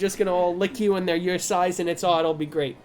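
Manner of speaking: chatty New York host; New York accent. Acted. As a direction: pitch the place like a New Yorker. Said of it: "We're gonna do New York".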